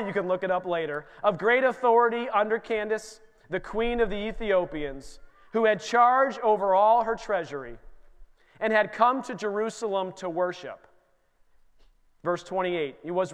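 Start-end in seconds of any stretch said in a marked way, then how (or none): 1.2-10.9 scripture reading. Acted. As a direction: read the verse with solemn weight. Reads scripture aloud.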